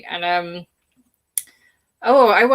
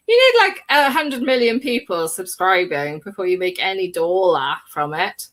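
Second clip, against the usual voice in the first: a hint of a mock Australian twang with pleading; lightly voiced Australian plea for subscribers; put-on accent; 2 semitones lower than usual. Asking fans to subscribe in a mock Australian accent. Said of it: "I don't know what accent that was".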